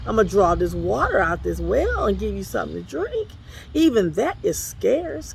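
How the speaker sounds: desperate widow begging the prophet; widow pleading. Retold or imitated.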